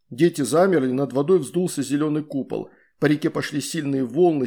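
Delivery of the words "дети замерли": ordinary delivery, nothing marked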